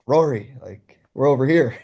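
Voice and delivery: half-hearted yell to get his attention; mild mock yell. Fan calling out to his idol, mild mock yell. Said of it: "like, yelling".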